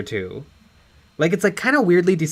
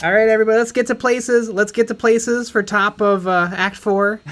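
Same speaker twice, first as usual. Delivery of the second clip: raised, higher calling voice; stage manager calling places; 6 semitones higher than usual. Acted. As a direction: call the cast to their places. Mock stage call to places.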